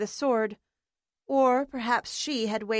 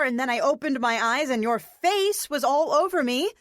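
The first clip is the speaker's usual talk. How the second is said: angry scolding; 4 semitones higher than usual. Acted. April scolds Harrison angrily.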